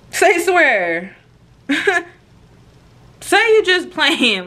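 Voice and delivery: high, drawn-out plea with a laugh; sheepish disbelief. Retold or imitated. Girlfriend realizing her mistake, high sheepish coaxing.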